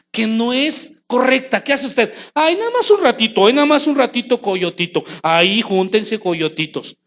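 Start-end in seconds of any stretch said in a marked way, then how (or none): 2.3-7.0 indulgent, higher giving-in; permissive parent. Pretend. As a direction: sigh and give in.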